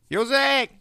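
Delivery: high, loud call of Józek; mother calling her son home; Mary shouting. Retold or imitated. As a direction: call out to him like a mother across the yard. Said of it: "krzyknęła Maryśka".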